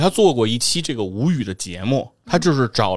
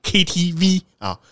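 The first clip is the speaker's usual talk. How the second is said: mock Cantonese accent; 6 semitones higher, slower than usual. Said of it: "咱学人家这个粤语发音".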